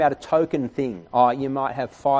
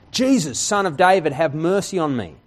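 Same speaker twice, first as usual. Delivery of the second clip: yelling out; 3 semitones higher, 4 dB louder than usual. Retold or imitated. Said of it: "he yells out".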